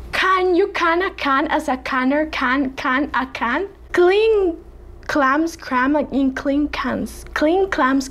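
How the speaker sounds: light attempt at a British accent, "can" said with a broader a; mildly put-on British accent for the tongue twister. Shown as a demonstration. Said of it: "Now I'm gonna try British accent".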